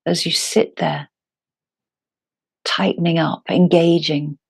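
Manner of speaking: calm, unhurried yoga teacher with long pauses; guided meditation. Acted. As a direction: guide them gently into their breath, phrase by phrase.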